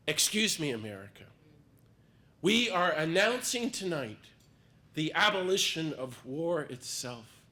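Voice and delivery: loud declaration to the nation; public proclamation. Pretend. Speaker urges audience to proclaim publicly, loud declaration. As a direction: announce it boldly to all America. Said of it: "and say publicly".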